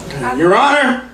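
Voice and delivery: a slow, lightly done lawyer drawl; Matthew McConaughey impression. Comic doing McConaughey in court, slow drawl. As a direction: courtroom closing, lazy and slow. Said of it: "this is Matthew McConaughey in Lincoln Lawyer".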